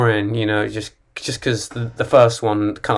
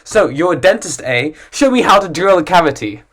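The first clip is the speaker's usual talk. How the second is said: mock teasing, a bit higher; pushy stranger; 4 semitones higher, 3 dB louder than usual. Imagined stranger pestering a dentist, mild mocking tone. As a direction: goad the dentist playfully. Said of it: "you never say".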